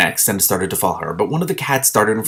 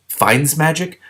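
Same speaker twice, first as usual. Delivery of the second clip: skeptical; 6 semitones higher, much slower than usual. A narrator's reading. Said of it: "Shiara said skeptically".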